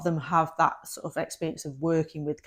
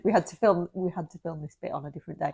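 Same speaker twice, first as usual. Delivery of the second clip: hoarse; faster than usual. Real, not acted. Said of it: "if my voice sounds a bit hoarse".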